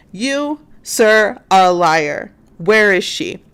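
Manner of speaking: deliberate, punched mock accusation; accusing detective. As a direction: imitate a detective confronting a suspect. Detective accuses him, retold.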